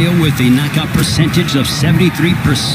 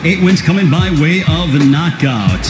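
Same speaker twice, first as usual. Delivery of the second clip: lucha libre announcer. Acted. Ring announcer introduces fighters.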